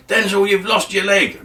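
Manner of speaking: high-pitched cry of alarm; alarmed comrade. Acted. Soldier finds wounded Denzel on the battlefield, alarmed. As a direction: break bad news in a high, urgent voice. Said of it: "someone come up to him on the battlefield and said".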